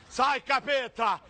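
mock exorcism. Fake exorcist drawn-out command.

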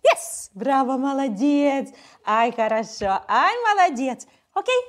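high gushing praise; excited praise. Real, not acted. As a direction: cheer the pup on. Praising dog after success.

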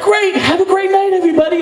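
high British farewell; high, grand British goodbye; British accent. Retold or imitated. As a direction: sign off like a British host. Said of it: "without the British accents".

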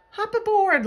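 high, loud bug's welcome; jolly invitation. A narrator's reading. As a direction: call out a cheery welcome aboard. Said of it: "laughed the bug".

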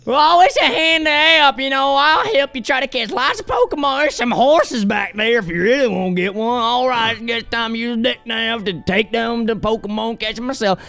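hammed-up Southern drawl; Southern accent. Southern app character pitching horses and Pokemon help, hammed-up Southern drawl. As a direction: play a folksy Southern pitch, vowels stretched out. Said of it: "down here in the South".

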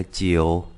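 "triệu" pronounced like Chinese jiǔ; "triệu" read the Mandarin way; Mandarin nine. Shown as a demonstration. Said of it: "Chín đọc là".

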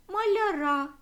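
маляра with a loud, high stress on the final syllable; маляра, ending hit hard. Shown as a demonstration. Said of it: "закінчення наголошене".

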